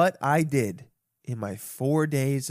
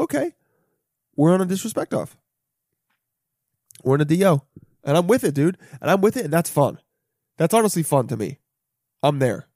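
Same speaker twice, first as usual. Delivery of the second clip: eager mock challenge; 3 semitones higher, 5 dB louder than usual. Retold own eager reaction.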